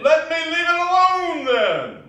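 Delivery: irritated rebuff. Acted. Scrooge irritably rebuffing his nephew. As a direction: push him away with irritation.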